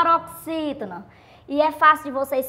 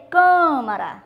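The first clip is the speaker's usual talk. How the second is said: "câmara" with weight on the first "câ"; stress on CÂ; 3 dB louder, slower than usual. Shown as a demonstration. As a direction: lean on the start of "câmara". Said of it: "do mesmo jeito". ("câmara" marcando o "câ")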